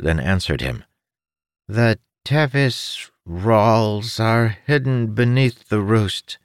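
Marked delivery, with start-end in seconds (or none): 1.7-6.4 high, odd little creature voice; chirpy winged creature, helpful. Acted.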